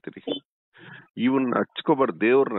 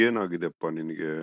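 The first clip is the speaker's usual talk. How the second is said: lower, softer, gentle asking; tender concern; 4 semitones lower, 5 dB quieter than usual. Real, not acted. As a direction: coax it out of him softly. Guru consoling crying caller. (ಅಳುತ್ತಿರುವವನನ್ನು ಮೃದುವಾಗಿ ಕೇಳುವುದು)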